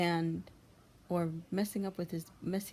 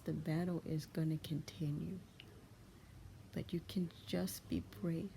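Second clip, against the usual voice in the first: soft whisper; 5 dB quieter than usual. Real, not acted. Comforting viewers, whispered lines.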